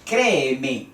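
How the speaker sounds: créeme stressed on CRÉ, falling after; stress on first E. Shown as a demonstration. Teacher shows where the voice rises, stressing CRÉ in créeme. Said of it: "donde se alza la voz".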